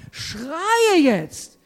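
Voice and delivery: retold call to cry out now; urgent command. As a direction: urge someone loudly to cry out. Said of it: "oft zu Leuten gesagt".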